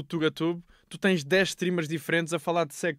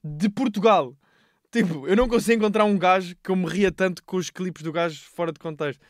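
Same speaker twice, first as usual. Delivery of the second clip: excited; 3 semitones higher, 5 dB louder than usual. Real, not acted. Enthusiastic praise of streamer.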